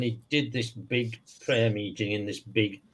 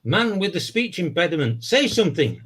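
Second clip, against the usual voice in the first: preacher voice; 5 semitones higher than usual. Retold or imitated. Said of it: "Then he says".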